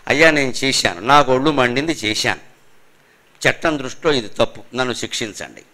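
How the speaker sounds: low, subdued admission of guilt; calm confession. Acted. Culprit confessing to the police, calmly resigned. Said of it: "ప్రశాంతంగా ఉండాల్సింది".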